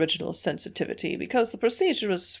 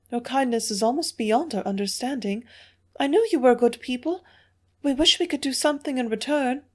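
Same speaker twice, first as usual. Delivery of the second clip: lightly voiced, higher grateful plea; a hint of an earnest young woman thanking them; 5 semitones higher than usual. A narrator's reading. Hilda pleads, grateful, higher voice.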